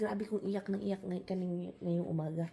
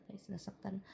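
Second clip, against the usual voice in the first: much softer whispered "nasaktan"; hurt whisper; 14 dB quieter than usual. Retold or imitated. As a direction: whisper it like a wounded confession. Telling viewers of hurt. (pabulong na nasaktan)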